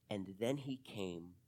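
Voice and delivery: slow, whispered and low; slow down and whisper the turning point; a slow hushed whisper of revelation. A narrator's reading. Parable climax, slowed to whisper.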